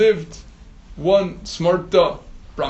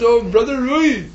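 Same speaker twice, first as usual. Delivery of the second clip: calling out; 7 semitones higher than usual. Acted. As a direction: call out cheerily to a neighbour fish. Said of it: "they're calling out".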